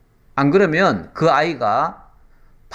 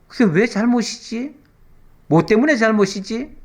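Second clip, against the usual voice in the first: put-on puzzled child; 7 semitones higher than usual.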